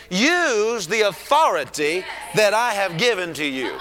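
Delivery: commanding shout. Acted. God commanding Moses.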